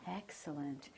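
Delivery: calm, slow praise to the dog; calm even praise voice. Real, not acted. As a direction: soothe the dog as you praise. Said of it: "keep your voice nice and calm when you praise the dog".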